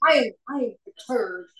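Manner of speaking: half-hearted, mechanical mock irritation; halting, dutiful attempt at sounding cross; robotic annoyance. Practicing anger as the sponsor assigned, robotic and unconvincing. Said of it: "I did it robotically".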